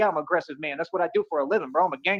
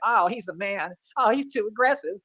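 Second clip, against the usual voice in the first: mock whining; slower than usual. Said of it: "complain and whine about it".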